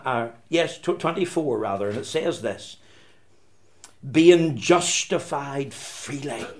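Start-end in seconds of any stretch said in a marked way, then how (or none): 4.1-6.5 slow, deliberate weight on "freely"; stress on freely. Shown as a demonstration. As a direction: draw out the phrase, leaning on "freely". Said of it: "Emphasis on the word freely".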